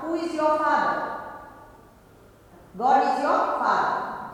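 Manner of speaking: ordinary talk, nothing marked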